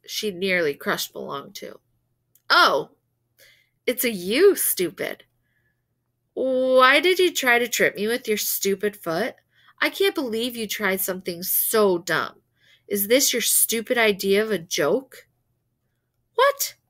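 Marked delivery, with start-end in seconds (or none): 2.5-15.3 sharp, loud annoyed scolding; angry scolding girl. Acted. Girl angrily scolds narrator in theater. 16.3-16.7 high startled yelp; shocked. Acted. Narrator's shocked reaction.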